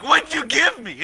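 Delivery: accusing yell, held back in volume; retold yell. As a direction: demand it in retold outrage. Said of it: "yelling at him".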